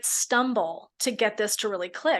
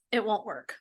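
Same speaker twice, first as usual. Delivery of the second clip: demo phrase; 2 semitones lower, 6 dB quieter than usual. Shown as a demonstration. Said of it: "notice what it feels like in your body when you say".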